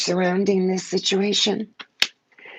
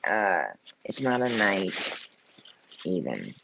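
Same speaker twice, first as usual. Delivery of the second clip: crying; 9 semitones lower, 3 dB quieter than usual. Real, not acted. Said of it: "I, I was crying".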